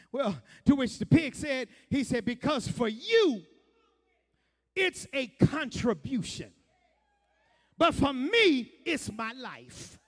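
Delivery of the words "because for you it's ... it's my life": pig's punchline. Acted.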